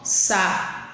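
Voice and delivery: "sapato" broken up slowly, PA held long; drawn-out stressed syllable. Shown as a demonstration. Teacher showing pupils the tonic syllable, PA drawn out in "sapato". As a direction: say "sapato" stretching the middle syllable PA. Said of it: "ela vai demorar mais dentro da minha boca".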